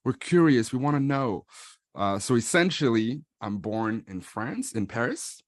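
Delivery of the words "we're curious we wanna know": curious fan voice. Retold or imitated. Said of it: "Another question that I often get is".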